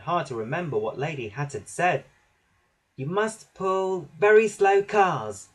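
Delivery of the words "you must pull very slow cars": slow, high, louder order; high-pitched little engine giving orders slowly; peeping. A narrator's reading. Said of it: "he peeped".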